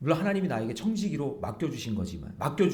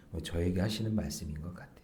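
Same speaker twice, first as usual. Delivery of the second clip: whispered aside; 8 semitones lower, 6 dB quieter than usual. Real, not acted. Confessional aside.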